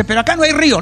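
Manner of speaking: retold heckler's shout. Someone interrupts the politician's promises, mild retold shout. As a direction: imitate someone calling out from a crowd, mildly. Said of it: "alguien le grita y le dice".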